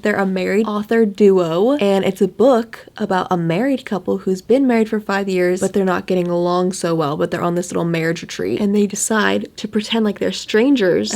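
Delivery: talking with a retainer in; wearing a retainer. Real, not acted. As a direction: speak around a retainer. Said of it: "I have my retainer in".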